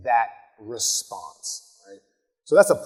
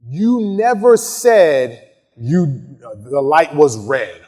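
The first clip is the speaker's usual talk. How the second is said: slow questioning; 6 dB louder, much slower than usual. Shown as a demonstration. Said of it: "You can impeach by saying".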